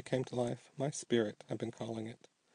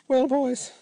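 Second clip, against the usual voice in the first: lightly; 11 semitones higher, 6 dB louder than usual. Acted. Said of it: "he asked lightly".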